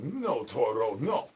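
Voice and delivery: low, soft no-no to a pet; quiet pet scolding. Acted. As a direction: gently tell the pet off.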